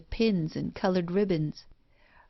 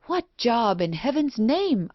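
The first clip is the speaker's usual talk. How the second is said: crying out; 4 semitones higher than usual. Acted. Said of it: "I cried".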